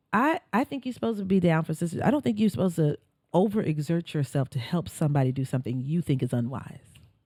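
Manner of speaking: put-on serene, very calm, unruffled tone. Retelling what she told the speaker, imitating a very calm voice. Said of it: "she said very, very calmly".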